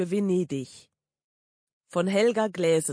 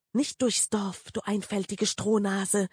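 hissing. Acted. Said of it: "zischelte es aus dem Beutel".

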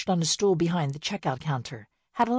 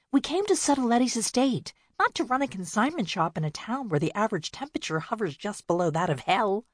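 put-on complaining older sister; 5 semitones higher than usual. Winnie complains about the town.

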